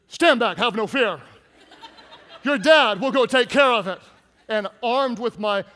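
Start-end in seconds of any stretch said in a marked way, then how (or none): 0.1-4.0 louder, hammed-up brave father; mock heroic dad. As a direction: play the fearless hero dad for laughs. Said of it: "I said".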